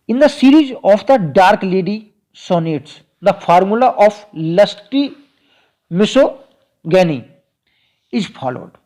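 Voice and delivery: slow, deliberate dictation of an English note; measured note-dictation voice. Acted. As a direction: read it out word by word for students to copy. Reads English lecture point slowly.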